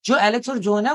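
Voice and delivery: a touch of demonstrated excitement; mild excitement. Shown as a demonstration. Teacher explains the speaker's amazement, with mildly acted excitement. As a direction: lightly act out an excited question. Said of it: "यहाँ पे excitement में बताया जा रहा है".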